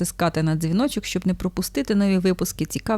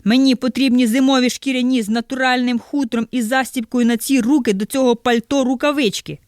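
loud, run-on list in one angry breath; almost shouting; 5 semitones higher, 3 dB louder than usual. Acted. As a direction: nearly yell the whole list. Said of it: "ледве не кричить". (майже кричить, на одному подиху)

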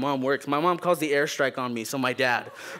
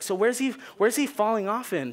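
pointed mom question; 6 semitones higher than usual. Retold or imitated.

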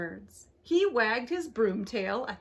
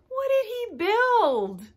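excited wonder; 10 semitones higher, 3 dB louder, slower than usual. A narrator's reading. Repeated suspense question.

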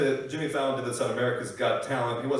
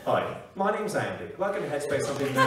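lightly voiced meditation-app host; Andy Puddicombe. Meditation host welcoming app listeners, lightly put-on voice. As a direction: put on a slight app-narrator voice. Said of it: "Andy Puddicombe from the app Headspace".

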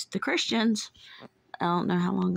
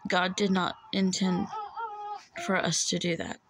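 near tears. Real, not acted. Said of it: "I'm trying not to cry".

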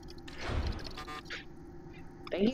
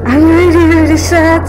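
mock sad; 6 semitones higher, 9 dB louder than usual. Overstated sadness after losing.

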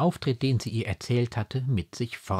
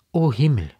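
louder cry of emotion; heartfelt outburst; moved exclamation; 5 semitones higher, 8 dB louder than usual. A narrator's reading. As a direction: exclaim it, shaken and touched. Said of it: "rief sie".

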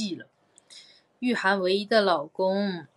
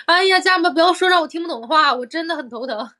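higher, louder pleading complaint; exasperated whine; 7 semitones higher, 6 dB louder than usual. Real, not acted. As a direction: playfully beg the fans to stop. Begs fans to stop confusing slang. (撒娇式抱怨)

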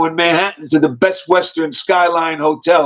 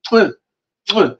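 two quick imitated kisses; short smacked kiss sound; kiss noises. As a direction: mimic planting a kiss. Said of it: "she kisses both of us".

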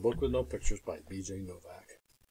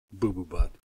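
silly name; 4 semitones lower than usual. Acted. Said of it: "make silly sounds".

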